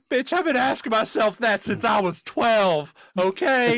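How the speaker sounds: mock-indignant teen snapping back; lightly voiced bratty comeback; exasperated Ron. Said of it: "and Ron's just like".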